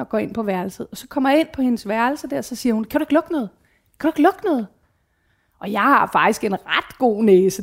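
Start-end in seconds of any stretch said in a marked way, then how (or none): 2.8-4.7 higher daughter voice asking twice; questioning daughter. Retold or imitated. (datteren spørger, højere stemme)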